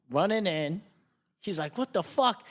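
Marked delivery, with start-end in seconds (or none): 1.8-2.5 higher, louder retold disbelief; startled demand. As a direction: burst in baffled and alarmed. Friend runs in on the fight.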